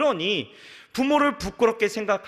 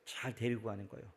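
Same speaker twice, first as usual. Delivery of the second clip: ordinary delivery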